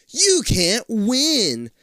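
high, loud, very slow exasperation; exasperated kid. Acted. Older sibling blamed after the complaint, exasperated. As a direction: stretch each word out, high. Frustrated kid's thought, drawn out.

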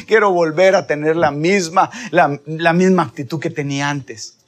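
acted plea, swelling then easing; tearful pleading. Believer begging the Lord for a miracle, mildly tearful pleading. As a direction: beg earnestly, a touch of tears. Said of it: "con lágrimas en los ojos".

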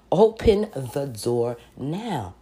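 slow, deliberate inner-voice command; voice from within. Retold or imitated. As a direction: let each word fall heavy, slowly. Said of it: "a voice from within".

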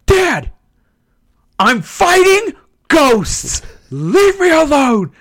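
high, slow whining brush-off; whiny teen gamer. Retold or imitated. Teen gamer brushing off his dad, high whine. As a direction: whine at dad without looking up. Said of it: "And I was like".

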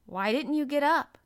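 stiff demand. A narrator's reading. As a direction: demand it stiffly, high and loud. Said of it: "with her stiff manner".

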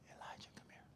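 unvoiced whisper calling Elijah; God's whisper. God calling Elijah softly, in a whisper. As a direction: breathe his name, barely there. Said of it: "He whispers".

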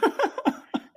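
squeaky burst of laughter; laughing at his friend's mock fan; high-pitched laugh. Real, not acted. Laughs at quoted tweet.

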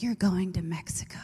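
imitating a calm whispered announcement; whispered news. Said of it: "She's like".

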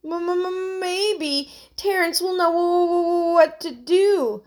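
high, stuttering with cold; shivering. A narrator's reading. Heidi hoping for rescue in the cold boat, shivering. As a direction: stammer on first sounds through the shivers.

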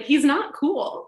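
slow, high deadpan verdict. Retold or imitated. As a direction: drop it slowly, dead flat. Wife's blunt verdict.

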